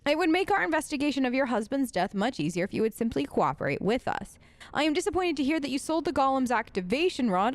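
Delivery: put-on lightly formal narration of an old letter; letter read aloud. A narrator's reading. Reads a found letter aloud.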